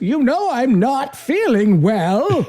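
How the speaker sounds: put-on high, slow, complaining old man; whiny old priest. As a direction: whine it like a frail old priest. Voicing the demented old Monsignor.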